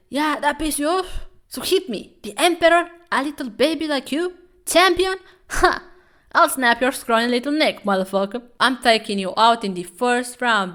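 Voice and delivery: high, loud mocking taunt; trash-talking boxer. Foreign boxer taunting the champion, loud high mockery. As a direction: taunt him like a cocky fighter. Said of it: "He's like".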